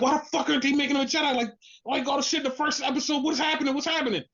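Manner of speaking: quick, high-pitched baffled complaint; bewildered fans. Retold or imitated. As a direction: imitate fans getting worked up. Voicing angry fans' bewildered reaction.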